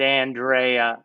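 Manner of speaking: Andrea said slowly with a broad AHN-DRAY-a; accented name. Retold or imitated. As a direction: give Andrea the accented, drawn-out vowels. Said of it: "with the accent".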